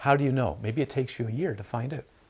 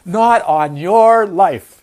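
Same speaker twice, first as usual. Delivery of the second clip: loud, slow, high shouted refusal; scared student; 6 semitones higher, 15 dB louder, much slower than usual. Acted. Scared student refusing to go sailing, shouted long and high. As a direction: bellow it like a hammed-up scared student. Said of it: "You want to see a scared student?".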